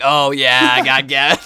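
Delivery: loud, drawn-out gloating cheer; mock celebration. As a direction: fake a big over-the-top celebration. Mock celebration he would never make.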